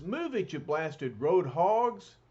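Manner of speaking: high, slow, drawn-out yell at traffic; gruff Thing yelling. Acted. Thing shouting at road hogs, drawn-out yell. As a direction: bark it like a cranky brawler.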